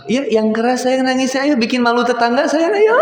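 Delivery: high, teasing mock challenge to a crying child; dad teasing his crying little son, mock dare. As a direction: egg the kid on in a playful high voice.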